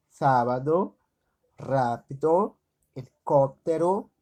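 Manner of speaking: "sábado, rápido, helicóptero" with SÁ, RÁ and CÓP punched; stress on the antepenultimate. Shown as a demonstration. Teacher listing esdrújulas, "sábado, rápido, helicóptero" with SÁ, RÁ, CÓP stressed. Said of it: "antepenúltima sílaba é tônica".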